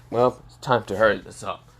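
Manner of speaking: low, cold, flat delivery; cold monotone. Acted. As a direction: say it coldly, without feeling. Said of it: "in a very cold and monotone voice".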